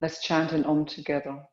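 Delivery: calm, measured yoga-teacher voice with long pauses; guided meditation. Real, not acted. Teacher guiding a yoga class into awareness of breath and heart, calm meditation. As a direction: settle them into stillness, phrase by phrase.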